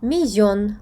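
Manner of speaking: Spanish millón, weight on the end of Мільйон; accented final syllable. Shown as a demonstration. Teacher showing a written accent, Мільйон stressed last. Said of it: "наголос стоїть графічний".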